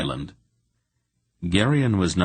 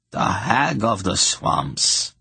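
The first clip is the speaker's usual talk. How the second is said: ape a superstitious villager; mimicking a peasant; 4 semitones higher, slower than usual. Witch mocks what peasants call her, slow and awed. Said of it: "she mimicked the speech of a credulous peasant".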